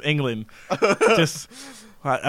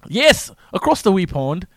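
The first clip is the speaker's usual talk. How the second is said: higher, slow mock British accent; drawn-out British accent; put-on British accent; 4 semitones higher than usual. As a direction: answer playfully in a broad British accent. Playing up the accent when teased.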